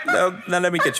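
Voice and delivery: talking through laughter; laughing. Real, not acted. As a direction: still chuckling as you offer a drink. Host still laughing after the dummy.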